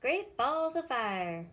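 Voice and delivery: drawn out cry of surprise; cried out. A narrator's reading. Goose cries out at the news. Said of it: "cried the goose".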